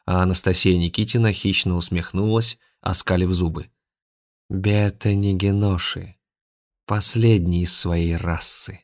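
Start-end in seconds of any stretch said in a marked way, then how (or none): 4.5-8.8 slow, mild spiteful tone. Acted. Possessed Anastasia points at Afanasy, mild spite. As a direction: sneer out the name. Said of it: "злобно сказала она".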